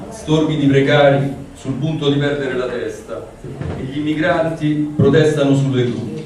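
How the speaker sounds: measured, even recital of a poem; poetry reading. Acted. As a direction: read the poem aloud with care. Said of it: "ora vado con la traduzione".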